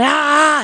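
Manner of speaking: high, drawn-out crowd cheer "aah"; imitated excited shout. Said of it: "se emocionaron y gritaban".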